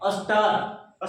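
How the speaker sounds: स्टार stretched very slowly to its end; drawn-out demonstration. Shown as a demonstration. Teacher answers what we will say, drawn out slowly. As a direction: draw स्टार right out. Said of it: "क्या बोलेंगे".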